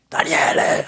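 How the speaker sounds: imitating a booming cosmic voice calling a name; mock voice of the universe; cavernous deep voice. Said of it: "cavernous, deep voice yelling".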